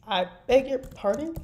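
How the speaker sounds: high, mock-offended "I beg your pardon?"; haughty pardon. Streamer reading her fan fiction to chat, mock-offended and lifted. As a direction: arch and indignant, voice lifted. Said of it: "sometimes I say it like that".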